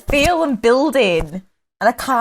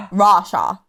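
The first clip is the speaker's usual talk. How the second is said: slow, lower Russian-accented country name; 5 semitones lower, much slower than usual. Shown as a demonstration. Guest answering a request, mock Russian accent. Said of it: "Do Russia".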